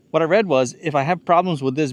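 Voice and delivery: slightly winded restart; out of breath. Real, not acted. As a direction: still catching breath. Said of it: "I'm out of breath from climbing those two ladders".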